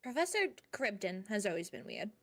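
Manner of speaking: talking while chewing; words round a bite of food; mouth full. Real, not acted. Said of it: "I'm eating blood bread at the moment".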